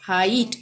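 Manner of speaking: हाइट with आ gliding into ई; careful model हाइट, vowel आई; ai glide. Shown as a demonstration. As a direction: sound both आ and ई in हाइट. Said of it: "आ ई आ रहा है ना".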